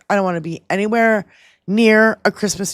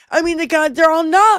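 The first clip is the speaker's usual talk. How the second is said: usual speaking voice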